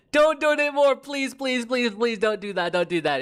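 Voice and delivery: high excited pleading. Real, not acted. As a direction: beg them not to. Pleading chat not to donate.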